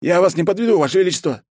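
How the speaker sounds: the general promising the emperor, reporting high and loud; crisp report. Acted. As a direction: snap it out like a zealous officer. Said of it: "отрапортовал Конев".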